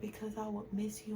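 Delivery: soft imitation of a young daughter; hushed retelling of her daughter; little daughter's reply. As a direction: quote a small child, very quietly. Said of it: "She was like".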